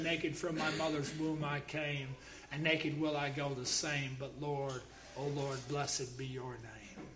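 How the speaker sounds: low, soft solemn quotation; subdued, reverent. Acted. Quotes grieving Job blessing God.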